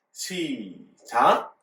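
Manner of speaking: stretched count-in ending on a rise; drawn-out start cue. Real, not acted. Preacher cueing children to read together, drawn-out cue. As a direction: draw it out to cue everyone in.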